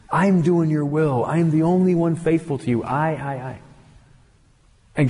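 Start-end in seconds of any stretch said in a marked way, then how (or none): 0.1-3.6 mild mock of a smug prophet; self-justification. Elijah justifying himself to God, mildly smug. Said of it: "speech of great self-justification".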